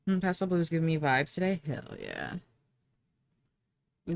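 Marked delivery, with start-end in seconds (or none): 1.7-2.3 deep mock voice. Very low muttered agreement.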